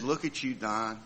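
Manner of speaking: little inner voice. Retold or imitated. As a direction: gently marvel at yourself from within. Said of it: "this little voice in my head said".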